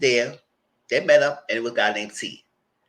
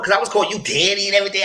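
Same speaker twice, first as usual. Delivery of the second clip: laughing; 11 semitones higher, 6 dB louder, much faster than usual. Real, not acted. Laughing while retelling.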